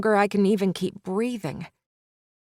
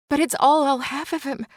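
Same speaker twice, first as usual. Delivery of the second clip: quick, higher, gasping plea; through a gasp; 6 semitones higher, faster than usual. Acted. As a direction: choke the words out on a gasp. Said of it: "I say through a gasp".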